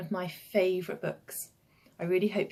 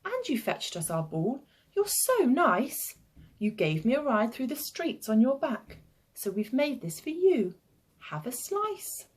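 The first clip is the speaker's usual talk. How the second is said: lightly voiced child, rising higher with praise; grateful little boy; 4 semitones higher than usual. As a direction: praise warmly in a lilting child voice.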